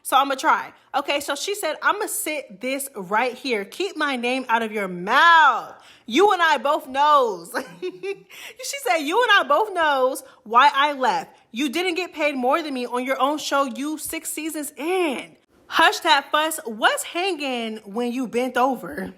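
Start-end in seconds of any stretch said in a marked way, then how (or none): 1.8-7.5 slow, drawn-out mock reading of her words; a light imitation of Akbar typing how she talks; Akbar's accent. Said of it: "Y'all know Akbar got a little accent". 9.0-16.6 slow, drawn-out mock reading of her words; a light imitation of Akbar typing how she talks; Akbar's accent. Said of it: "Y'all know Akbar got a little accent". 16.6-19.1 slow, drawn-out mock reading of "What's hanging"; a light imitation of Akbar's line; Akbar's accent. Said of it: "Akbar got a little accent".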